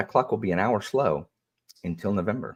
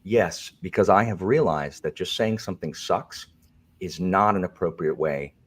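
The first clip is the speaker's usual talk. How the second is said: prim moderator voice. Pretend. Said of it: "if this is the new Alan".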